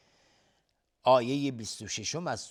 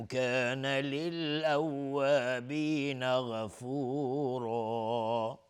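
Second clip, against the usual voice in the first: slow, drawn-out melodic Quran chant; Quran recitation; 2 semitones higher, much slower than usual. Acted. Teacher recites the verse for viewers, slow melodic chant. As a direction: recite each word slowly and melodically, like tilawa.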